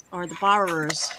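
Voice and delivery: "borrowers" sin la R, como "bah-rohs"; Boston accent. Shown as a demonstration. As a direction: drop the R in "borrowers", Boston style. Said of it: "with my Boston accent".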